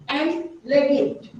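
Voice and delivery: legit slowed and leaned on; stress on legit. Real, not acted. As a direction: give the word legit slow, deliberate weight. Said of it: "I emphasize the word legit".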